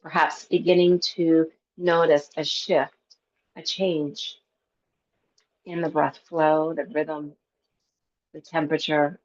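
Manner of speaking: calm meditation teacher with long pauses; guided breath work. Real, not acted. Yoga teacher settling a class into breath work, calm guided relaxation. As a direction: guide them gently into stillness, unhurried.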